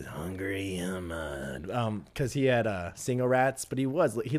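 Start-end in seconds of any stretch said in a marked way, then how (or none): 0.0-1.7 low, soft, very slow mimicry; drawn-out nickname. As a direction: stretch the nickname out slowly and low. Drawing out a recruit's nickname.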